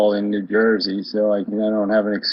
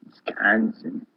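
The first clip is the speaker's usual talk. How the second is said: slow, breathless whisper of "Wisconsin" with a falling end; 5 dB quieter, slower than usual. Real, not acted. Repeats the state name again, whispered.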